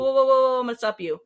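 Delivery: high, loud whoa to cut them off; mock officer cutting someone off; firm stop. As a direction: shut the inmate down fast. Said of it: "As soon, oh".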